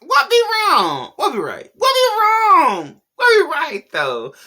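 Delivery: high, loud mocking Jamaican patois; hammed-up Jamaican accent, wailing high. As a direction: parody Chet's fake Jamaican accent, crying out. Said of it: "having a black accent when you came from Malibu".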